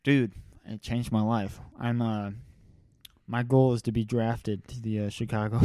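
talking around a cigar in mouth; words round a cigar in mouth. Real, not acted. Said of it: "You have a cigar in your mouth right now".

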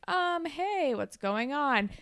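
awkward, mock-casual hello; tense greeting. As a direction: act out a slightly strained greeting. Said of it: "it's kind of tense".

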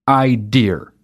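"idea" said with an r at the end, like idear. Shown as a demonstration. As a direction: finish "idea" with an r sound. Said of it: "also not a word".

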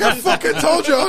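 high, loud laughing taunt; mocking told-you-so. Friend gloating after the earthquake, high laughing taunt.

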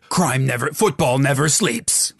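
mock American promo voice; slow American tagline delivery; American accent. Co-host improvises a sponsor slogan, mock American accent. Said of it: "in an American accent".

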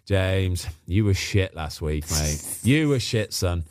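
imitated accent of a football manager, pitched low; Tony Pulis. Manager with arm round a player, imitated accent. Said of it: "Not a bad accent".

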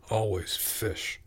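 soft, slow grumble; a sulky boy complaining under his breath; muttered. Acted. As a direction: keep grumbling quietly to yourself. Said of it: "he muttered".

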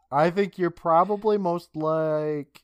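slow, whispered build-up; teasing whisper. Real, not acted. Teasing his cohost before naming his character, slow whisper. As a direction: whisper it to stretch the suspense.

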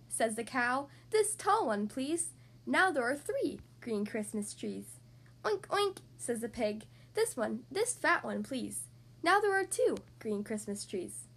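lively picture-book read-aloud; reading to children. Acted. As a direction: read it like bedtime story time. Reads picture book to kids.

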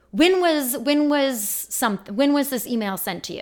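imitated testy questioning, starting high and loud then settling; irritated, condescending. Insurance agent questioning a caller, mildly irritated. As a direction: re-enact a condescending phone agent. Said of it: "Clearly irritated and, like, condescending".

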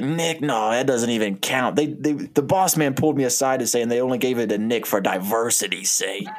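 dismissive, lightly Italian-American braggart. Acted. Donnie explaining away losing the award, lightly Italian voice. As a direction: brush it off in a hint of Italian accent. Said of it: "I keep doing an Italian voice".

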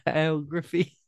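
"Photography" mimicked with a rising "-TAG-ruh-fee"; mock the friend's "Photography", pitching it up; imitating photography. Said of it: "the way you said photography".

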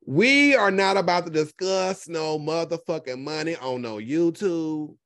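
drawn-out, each word weighted; slow emphatic. Real, not acted. Tells viewers the no-money rule, slow and emphatic. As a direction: hammer the rule home slowly. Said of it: "rules that Sean Bradley applies".

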